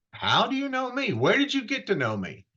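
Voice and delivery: high, startled asking; astonished question. Acted. Nathanael startled that Jesus knows him, high and astonished. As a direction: caught off guard, pitch jumping up. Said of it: "And Nathanael goes".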